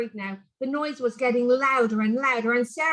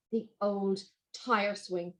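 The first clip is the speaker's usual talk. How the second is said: slow reveal; 4 semitones lower, 6 dB quieter, slower than usual. A narrator's reading. Narrator reveals the swing.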